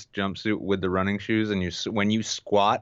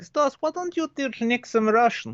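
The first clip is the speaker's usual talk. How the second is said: mom's voice; 14 semitones higher than usual. Retold or imitated. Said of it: "She's like".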